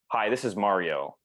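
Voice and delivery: "Hi, this is Mario" with falling ends; declarative. Shown as a demonstration. Opening a sales call, declarative "Hi, this is Mario" falling. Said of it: "with declaratives".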